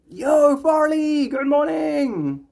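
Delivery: slow, high, loud yo; drawn-out greeting call. Real, not acted. Streamer greets a viewer, slow and loud. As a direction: stretch the hello out to a viewer.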